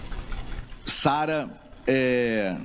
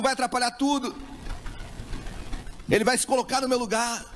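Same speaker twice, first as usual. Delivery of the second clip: a mother's pleading rising higher and higher; desperate mother; 6 semitones higher than usual. Acted. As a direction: plead as the desperate mother who would rather die herself. Preacher voices desperate mother. (mãe desesperada, suplicando cada vez mais aguda)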